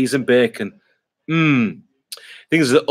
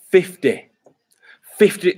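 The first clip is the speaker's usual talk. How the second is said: surprised; 6 semitones higher than usual. Real, not acted. Reacting to fifty degrees heat.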